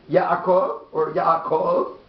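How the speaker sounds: "Yaakov or Yaakov", slowly, moving the beat between syllables; slow demonstration of two stresses on "Yaakov"; contrasted stress. Shown as a demonstration. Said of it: "When there's three syllables".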